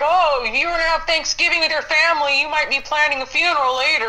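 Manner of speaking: dramatic doom-laden announcer voice; mocking news anchor. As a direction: ham up a fearmongering newscaster. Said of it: "they're like".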